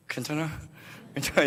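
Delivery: mock tight-jawed comforting; through gritted teeth. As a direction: swallow the anger, jaw clenched. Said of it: "어금니 꽉 깨물고".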